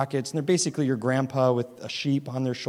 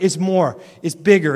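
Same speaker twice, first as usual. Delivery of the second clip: growing insistence; 3 semitones higher, 9 dB louder than usual. Retold or imitated. Dad escalating with son.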